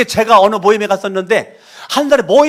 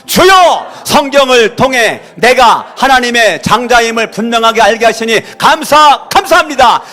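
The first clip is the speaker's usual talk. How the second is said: even louder, higher cry to God; louder shouted prayer; 5 semitones higher, 6 dB louder than usual. Real, not acted. Pastor urged to shout louder, full-voiced prayer. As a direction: push the prayer out harder on request. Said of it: "더 크게 해봐요".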